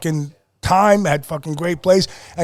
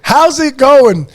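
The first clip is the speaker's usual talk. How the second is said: slow drawn out; 6 semitones higher, 5 dB louder, much slower than usual. Retold or imitated. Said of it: "And I says".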